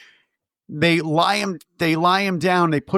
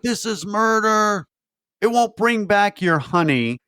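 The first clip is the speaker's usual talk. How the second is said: solemn film voice; 5 semitones higher than usual. Retold or imitated. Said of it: "he's like".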